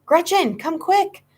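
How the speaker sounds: high, urgent cry for help; desperate cry. A narrator's reading. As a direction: call your sister in panic. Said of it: "his desperate cry".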